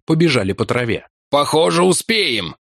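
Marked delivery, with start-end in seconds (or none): 1.3-2.6 panting. Acted. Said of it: "Он тяжело дышал".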